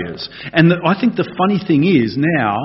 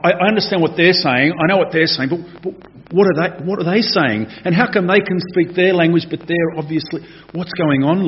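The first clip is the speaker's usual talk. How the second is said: higher-pitched, stammering confusion; perplexed; 5 semitones higher than usual. Acted. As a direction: act out a bewildered onlooker, tripping over the words. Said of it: "I actually think they were perplexed".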